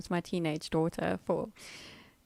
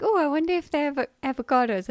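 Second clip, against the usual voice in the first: quick, higher dad voice; imitating dad; 5 semitones higher, 5 dB louder, faster than usual. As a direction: mimic dad, a bit higher. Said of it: "he's like".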